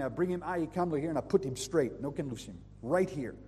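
light Hawaiian pidgin accent. Shown as a demonstration. Preacher joking with congregation in mild Hawaiian pidgin. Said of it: "Let me talk a little pidgin".

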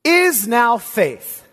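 slow, word by word; read woodenly. Shown as a demonstration. Preacher reading the Greek order aloud, wooden and slow. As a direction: lay out each word stiffly, very slow. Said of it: "It actually reads very woodenly".

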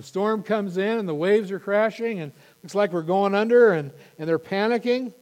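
loud, high, urgent build of the storm; dramatic storytelling. A narrator's reading. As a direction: tell the storm with rising urgency.

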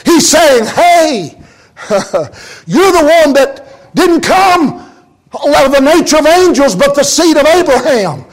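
rising preaching. Acted. Preacher building up again.

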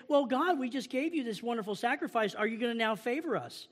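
a touch of smug churchgoer asking God; mock self-satisfied plea. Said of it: "and say".

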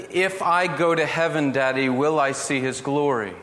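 a hint of a young son asking his dad; little boy's question. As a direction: ask it like a curious six-year-old. Father voicing young son's question.

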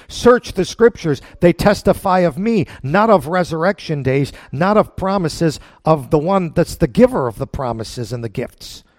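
loud, high, ringing proclamation; forceful preaching. Acted. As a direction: declare it like a fiery preacher. Preacher voicing Jesus, full force.

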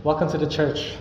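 friendly welcoming voice; engaging welcome. Shown as a demonstration. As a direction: greet a visitor at church eagerly. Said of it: "But if I'm different".

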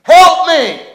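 desperate high shout for help; cry for help. Acted. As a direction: shout it out loud, high and drawn out. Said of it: "what I hear people say".

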